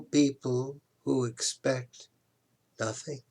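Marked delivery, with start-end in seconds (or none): none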